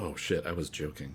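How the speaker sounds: very quiet, low mutter under the breath. Storyteller recalls reacting to a man with a cane: retelling muttering under breath. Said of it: "Under my breath".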